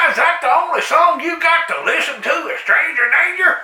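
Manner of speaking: mocking jab at the jogger's chant. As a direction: tease her song.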